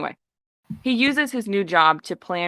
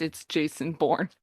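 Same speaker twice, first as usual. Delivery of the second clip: resigned aside; 3 semitones lower, 5 dB quieter than usual. Real, not acted. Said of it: "Jesus Christ".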